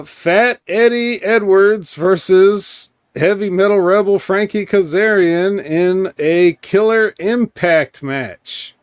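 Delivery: high, slow ring announcer. Acted. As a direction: call out the main event like an announcer. Announces the main event.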